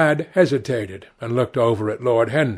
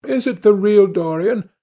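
higher, louder questioning cry; raised, excited question with a rising end; eager cry; 9 semitones higher, 5 dB louder than usual. A narrator's reading. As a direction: cry out the question, voice lifted high. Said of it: "cried the original of the portrait".

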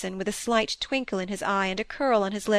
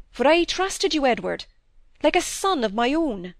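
serious, hurt reproach; a hint of a grieved father; lightly voiced grave older doctor; 3 semitones higher than usual. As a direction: speak from a betrayed trust.

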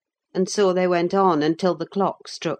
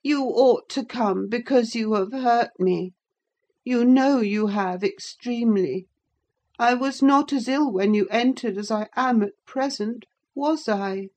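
a hint of a sulky invalid; 7 semitones higher than usual. A narrator's reading. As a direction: lay on the guilt. Linton reproaching Catherine.

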